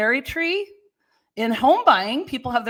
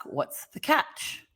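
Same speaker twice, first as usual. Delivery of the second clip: whispered question; 3 semitones higher, 6 dB quieter, much slower than usual. Acted. Asking the seller's hidden catch.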